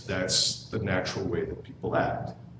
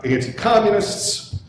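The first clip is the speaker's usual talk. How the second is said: put-on old man voice; 11 semitones higher, 5 dB louder, slower than usual. Shown as a demonstration. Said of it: "I should do my old man voice".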